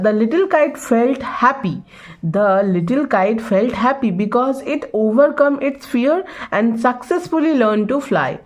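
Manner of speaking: very slow, word by word, for the class; slow dictation reading. Shown as a demonstration. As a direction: spell it out slowly like a dictation. Teacher reads answer aloud. (बहुत धीमी, श्रुतलेख जैसी पढ़ाई)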